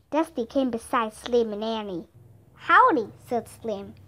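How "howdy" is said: bright raised cowboy hello, higher and louder; pitched up, punchy greeting; called greeting. A narrator's reading. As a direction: call out a hearty hello. Greeting between riders, called out.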